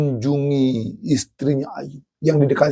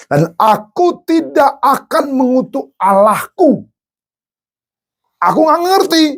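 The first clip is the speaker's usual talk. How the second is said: much higher, louder, near crying; tearful Job; 11 semitones higher, 4 dB louder than usual. Acted. Job refuses his wife, crying but firm. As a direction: hold faith through tears.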